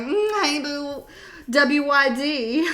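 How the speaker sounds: slow, sly, coaxing purr; flirty late-night text. Acted. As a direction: drawl it like a tipsy tease. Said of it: "and you're like".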